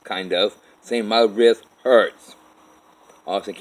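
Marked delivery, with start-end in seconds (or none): 1.1-2.3 loud, drawn-out yell; retold yell. Man tells Kathy and Gerard about the pain, yelling. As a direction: yell it slowly, stretching the words. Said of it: "I end up yelling at".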